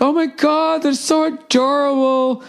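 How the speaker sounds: high, slow gushing woman; high mock-ditzy coo; ditzy lady voice. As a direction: gush like a starry-eyed fan. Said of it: "She's like".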